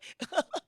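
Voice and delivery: high, short giggle; amused laugh. Real, not acted. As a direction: laugh at your own anecdote. 구박받은 얘기 끝에 웃음. (높게 터지는 짧은 웃음)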